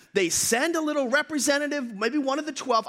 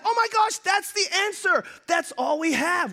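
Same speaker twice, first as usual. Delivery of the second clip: high alarmed exclamation; mock panic at the tiny supply; panicked realisation; 7 semitones higher than usual. A disciple realising the food is all they have, high mock panic.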